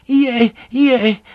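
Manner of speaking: high pleading cries of no; frantic begging. A narrator's reading. Fujiko begging Blackthorne to stay back, frantic high pleas. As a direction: beg him desperately to stop. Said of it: "she begged again".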